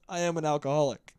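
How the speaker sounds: laughing confession. Real, not acted. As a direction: admit it through a laugh. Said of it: "This just means I".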